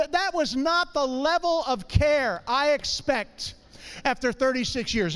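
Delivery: slow, emphatic mock outrage; hammed-up hurt disbelief; comic indignation. Comic indignation at wife's brush-off.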